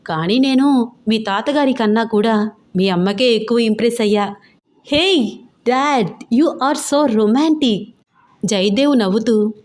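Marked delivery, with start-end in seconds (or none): 4.9-7.8 excited tease. Acted. Daughter teasing her father.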